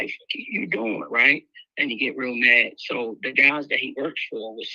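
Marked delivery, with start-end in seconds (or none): 0.0-1.0 high, slow shocked what you doing; startled high What you doing. Retold or imitated. Dealer just slapped, asking in high drawn-out shock.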